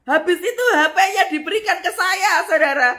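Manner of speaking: loud, high, laughing excitement; excited. Real, not acted. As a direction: burst out with delighted disbelief. Excited climax of the story.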